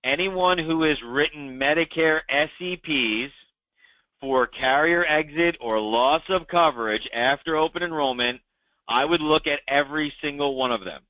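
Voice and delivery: measured, carefully phrased repeat for clarity; deliberate restatement. Real, not acted. Meeting host restating Medicare enrollment advice for agents, deliberately paced. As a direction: say it carefully, pausing between phrases. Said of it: "Let me say that again slow".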